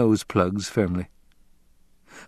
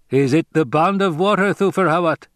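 high, insistent question; demanding; 9 semitones higher, 4 dB louder than usual. A narrator's reading. Fremen demanding Hawat's word on the bond, insistent. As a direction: press for an answer, high and firm. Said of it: "he demanded".

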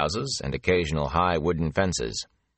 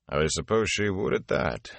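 dryly. Acted. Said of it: "Tom said dryly".

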